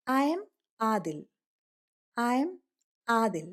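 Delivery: slow, deliberate model reading; spaced-out teacher demo; slow model sentence. Shown as a demonstration. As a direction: read it out slowly for the class. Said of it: "I am" എന്ന് പറയരുത് കേട്ടോ".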